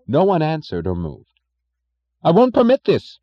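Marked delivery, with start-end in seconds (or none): 2.2-3.2 loud high furious cry; cried out. Acted. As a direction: cry it out in fury. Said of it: "cried Mister Thompson".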